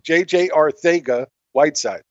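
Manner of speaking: Arcega said "ar-THAY-ga" within the full name. Shown as a demonstration. Co-host demonstrates how the player says it, Arcega with TH. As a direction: give Arcega a TH in place of the C. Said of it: "that's how he says it".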